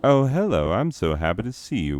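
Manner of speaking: swooping, gushy mock welcome; happy, bubbly. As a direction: imitate a bubbly greeter, starting high and loud. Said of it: "having a happy, bubbly".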